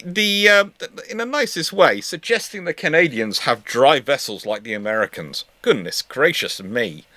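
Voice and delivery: usual speaking voice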